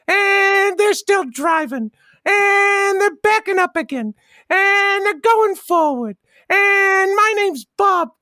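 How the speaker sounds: long drawn-out "and" opening each call; slow, sing-out race commentary in a kid character voice; race announcer. Pretend. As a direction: stretch the first word like a track announcer. Calls an imaginary car race.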